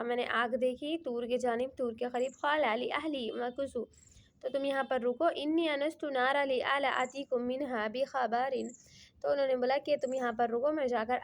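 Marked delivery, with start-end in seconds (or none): 2.4-8.5 slow, lightly chanted Arabic verse; Quran recitation. Acted. Teacher reciting to his students, slow light chant. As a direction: recite it gently with a measured melody.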